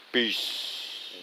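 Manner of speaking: whispered sign-off. Real, not acted. Signing off the video.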